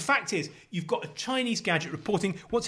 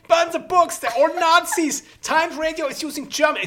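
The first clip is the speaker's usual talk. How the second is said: very high, loud comic ranting; hammed-up high-pitched indignation; mock outrage; 12 semitones higher, 3 dB louder than usual. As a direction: play a scandalised eavesdropper raising the alarm. Acting out outrage at German microphones.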